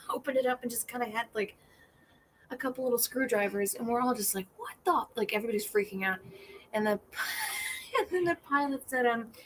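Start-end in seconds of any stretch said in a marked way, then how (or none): 4.6-5.1 mock shocked what the. Passengers see the tiny screwdrivers.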